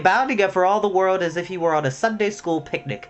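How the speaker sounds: story narration. A narrator's reading. Reading a Redwall chapter aloud to listeners, animated narration. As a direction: read the adventure out with energy.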